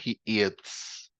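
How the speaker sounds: "eats" with a clear S at the end; careful teacher's "eats", ending in a crisp ts; audible final S. Shown as a demonstration. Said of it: "Ojo con la pronunciación, agregar la S".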